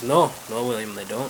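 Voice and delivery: lightly voiced Irishman; a mild put-on Irish brogue; Irish accent. Edward answers William in the pub, Irish accent. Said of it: "there's two Irish guys".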